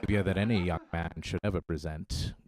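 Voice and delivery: languid, lofty scolding with long pauses; Alan Rickman. Acted. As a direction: draw it out in a deep, disapproving voice. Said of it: "Alan Rickman's voice or something".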